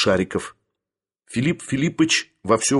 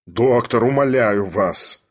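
slow, lightly strangled plea; strained pleading; slower than usual. A narrator's reading. Sharikov begs the doctor, strained pleading. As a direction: beg with the throat held.

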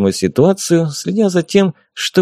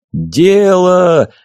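crowd cheer; 7 semitones higher than usual. A narrator's reading. Spectators cheer.

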